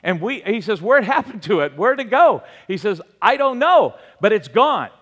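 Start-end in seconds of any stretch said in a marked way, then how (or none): 0.8-2.4 amazed question. Retold or imitated. Patient hears tumor is gone. 3.2-4.9 excited news. Retold or imitated. Nurse announcing tumor gone.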